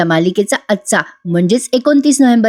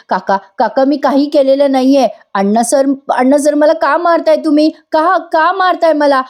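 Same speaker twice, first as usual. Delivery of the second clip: rising, higher frightened plea, mildly acted; frightened pleading; 5 semitones higher than usual. Priya begging Anna sir not to hit her, frightened. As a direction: plead in fear like a girl being beaten. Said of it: "Priya खूप घाबरलेली असते".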